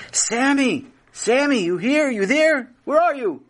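high calls across the house; calling out. Acted. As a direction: call for a lost child.

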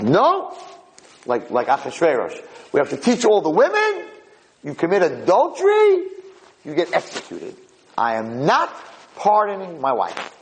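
high, indignant mock outburst; indignant refusal. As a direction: act out a husband's stubborn refusal. Husband angrily refuses the reporters' plea.

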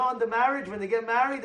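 ordinary talk, nothing marked

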